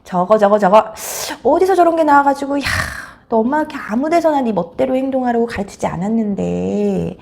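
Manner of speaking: exasperated mock tirade; acted fed-up mother's scolding; mother berating child. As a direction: start sharp, then grind on in disgust.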